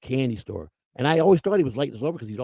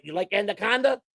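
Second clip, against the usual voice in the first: raised, taunting question; teasing player voice again; 5 semitones higher than usual. Retold or imitated. Naked player taunts the clubhouse manager again, raised and teasing. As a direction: tease him, grinning. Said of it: "He'd sit there naked".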